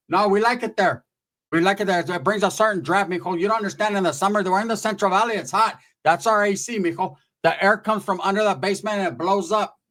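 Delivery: a hint of an insistent aunt; lightly voiced aunt. Aunt defending the hole in her floor, lightly imitated. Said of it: "My tia's like".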